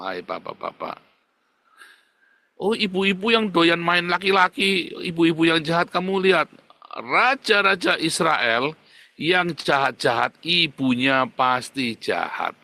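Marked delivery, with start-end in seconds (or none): 2.6-12.6 loud slow preacher's rebuke; preaching at full force. Acted. Preacher rebuking the fathers in the pew, loud and slow. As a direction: thunder it from the pulpit. Preacher confronting wicked mothers.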